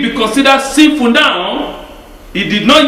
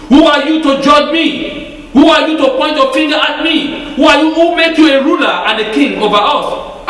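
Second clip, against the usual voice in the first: defiant retort; 5 semitones higher than usual. Acted. Defiant sinner voiced in sermon.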